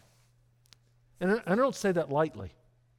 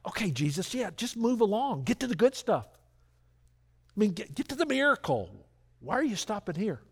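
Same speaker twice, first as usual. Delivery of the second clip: impatient; 4 semitones higher than usual. Retold or imitated. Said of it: "I would think".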